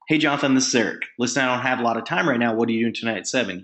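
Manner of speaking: brisk, rattled-off invite; in a hurry. Shown as a demonstration. Caller asking Jonathan about tonight, hurried. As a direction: speed through it like a busy caller. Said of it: "be in a hurry".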